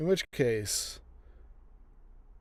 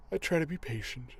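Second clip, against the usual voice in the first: yawning; 3 semitones higher, faster than usual. Real, not acted. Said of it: "Do not know why I'm yawning".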